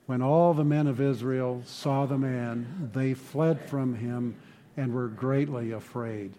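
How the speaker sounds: slow, measured scripture reading; congregational reading. Shown as a demonstration. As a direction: read it aloud together, slowly. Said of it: "let's read it together".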